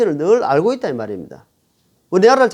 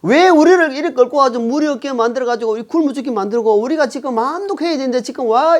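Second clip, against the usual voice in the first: higher-pitched mock grumbling of a crowd; imitated complaining; 5 semitones higher than usual. Thirsty people blaming Moses in the desert, acted complaint. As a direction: act out an accusing protest. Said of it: "불평합니다".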